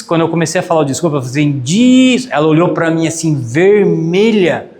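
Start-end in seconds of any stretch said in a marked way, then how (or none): 1.6-2.3 high, louder, stretched syllable; cut-off apology. Retold or imitated. Retelling his interrupted apology, high and drawn out. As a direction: begin apologising on one long high note.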